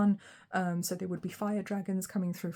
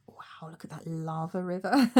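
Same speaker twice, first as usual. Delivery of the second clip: awed whisper; 2 semitones lower than usual. Real, not acted. Awed at a card image.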